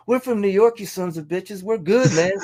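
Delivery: high, loud stage shout to a hostile crowd; retold rallying yell, full force; defiant shout.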